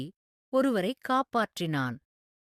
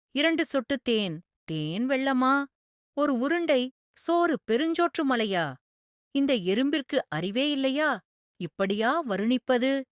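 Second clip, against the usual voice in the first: higher, amused scoff at the silly ant; amused disbelief; 6 semitones higher than usual. A narrator's reading. King privately mocking the ant's boast, amused disbelief.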